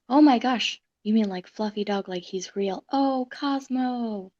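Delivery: loud, overjoyed gasp of delight; excited. Real, not acted. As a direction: burst out with joy at the dog. Dog becomes real, overjoyed.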